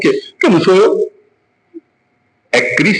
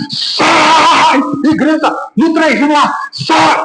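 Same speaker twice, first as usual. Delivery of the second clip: mock shouting preacher; 12 semitones higher, much slower than usual. Pastor mocking preachers who scream at demons, hammed-up shout. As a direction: parody a preacher bellowing at the devil. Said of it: "Ele não precisa gritar".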